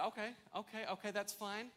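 retold "fine then" to a child; a touch of feigned acceptance; calling his bluff. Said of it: "I said".

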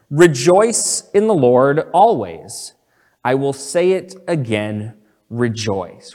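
slow, weighty proclamation, leaning on each phrase; solemn, deliberate emphasis; emphatic scripture reading. Retold or imitated. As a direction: read the verse out firmly, pausing before the repeated word. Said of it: "So very emphatically".

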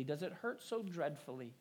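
softly voiced motherly concern; tender. A narrator's reading. Mother to her hurt little daughter, tenderly. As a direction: ask it gently, hushed. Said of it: "said tenderly".

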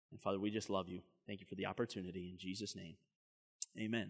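soft, low, hushed prayer voice. Real, not acted. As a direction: pray quietly over the congregation. Pastor leads prayer.

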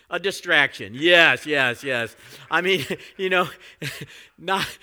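loud, high, amused outburst; laughing. Real, not acted. Preacher cracks up at a live distraction, loud and laughing. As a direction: crack up loudly while trying to talk.

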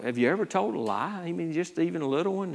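soft, casual imitation of a street preacher; lightly probe, as if just chatting; conversational questioning. Street preacher asking a passerby about lying, soft and conversational. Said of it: "he'll just have a conversation with people".

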